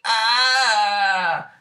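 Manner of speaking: high startled ah; startled cry. Retold or imitated. Krillin startled, high alarmed ah.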